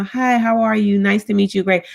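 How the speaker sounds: imitating a polite, gentle greeting; soft and gentle. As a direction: lightly mimic nice, well-mannered small talk. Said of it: "being soft and gentle and speaking".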